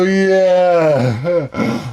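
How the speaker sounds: drawn-out, mock-agreeing yeah; put-on vague agreement; faked understanding. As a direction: imitate someone pretending to follow. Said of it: "try to fake it".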